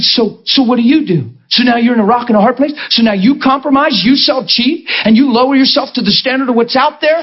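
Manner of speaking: hint of fiery preaching, retold; preaching to her. Pastor retelling her sermon to a young girl, mild preaching. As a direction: press her with rising challenge. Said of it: "That's how I preached to her".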